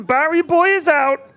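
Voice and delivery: drawn-out commentary on a knockout; hushed poker commentary. Acted. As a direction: call the bust out slowly.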